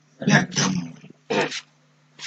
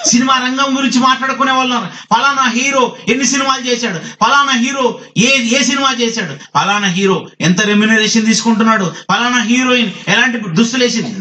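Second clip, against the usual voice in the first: high-pitched, scornful preacher's list; forceful preaching; 10 semitones higher than usual. Real, not acted. Preacher mocks film gossip to the congregation, forceful preaching. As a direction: preach the list of idle questions in a raised pitch.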